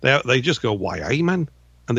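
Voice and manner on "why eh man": attempted Geordie accent; Newcastle accent. Shown as a demonstration. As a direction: have a shaky go at Newcastle dialect. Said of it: "It's difficult accent to do".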